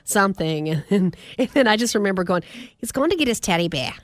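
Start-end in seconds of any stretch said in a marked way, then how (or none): 2.8-3.9 "bear" with the final r dropped, like "beah"; non-rhotic "bear". Retold or imitated. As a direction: say "bear" as an open "beh", no r. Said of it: "but bear".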